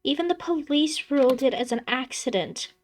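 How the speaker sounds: high, earnest plea; pleading. Acted. Daughter pleads with her father, high and earnest. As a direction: beg him to believe it. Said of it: "she pleads".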